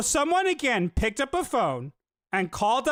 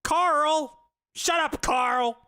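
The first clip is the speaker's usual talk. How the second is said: mock scolding; 5 semitones higher, much slower than usual. Mock scolding someone called Carl.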